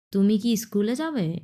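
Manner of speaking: তুমি কি স্কুলে যাবে asked with a lift on যাবে; question demo. Shown as a demonstration. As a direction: ask it, raising then dropping যাবে. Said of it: "এরকম".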